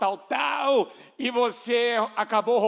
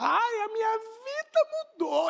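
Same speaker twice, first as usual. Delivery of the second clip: very slow, very high, drawn-out boastful gushing; 12 semitones higher than usual. Addressing the church, acting out a member's testimony, mock-proud declaration. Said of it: "E ela conta assim, de boca cheia".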